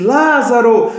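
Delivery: mild imitated calling cry; retold shout. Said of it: "quando ele gritou".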